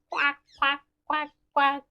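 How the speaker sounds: short, repeated quacks; duck quack. Acted. Teacher showing the duck's sound, quick quacks. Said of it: "The duck goes".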